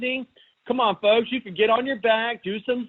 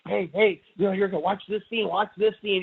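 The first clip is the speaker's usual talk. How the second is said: annoying moviegoer. Retold or imitated. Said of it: "You're, like, going".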